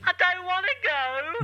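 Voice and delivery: David Tennant impression. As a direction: go big and breathless as Tennant. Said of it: "David Tennant".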